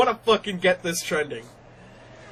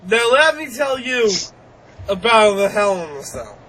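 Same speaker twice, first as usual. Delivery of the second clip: Bill Cosby impression; 2 semitones higher, 5 dB louder than usual. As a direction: lightly mimic Bill Cosby announcing the match. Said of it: "When did he turn into picking Bill Cosby".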